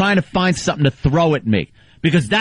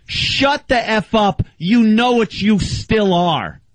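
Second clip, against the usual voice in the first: slow, pointed mock yell; higher, slow, jabbing each word; retold angry yell; 5 semitones higher, slower than usual. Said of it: "I just said".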